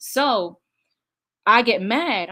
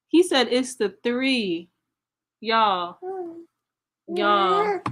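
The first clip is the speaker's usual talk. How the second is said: laughing disbelief; 4 semitones higher, much slower than usual. Real, not acted. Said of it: "not a laughing moment".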